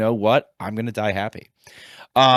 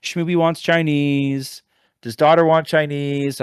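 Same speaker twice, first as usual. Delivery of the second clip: lightly voiced higher wife; a hint of the wife, pitched up, slower on Schmooby; light mock of wife asking about lunch; imitating wife; 6 semitones higher than usual. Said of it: "my wife's like".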